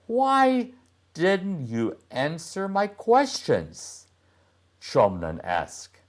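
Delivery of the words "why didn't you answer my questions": put-on boy's voice. Boy asks girl again.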